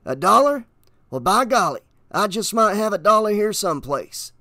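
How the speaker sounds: folksy, wheedling patter, lifted voice; sly stranger. A narrator's reading. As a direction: play along to keep the kid talking.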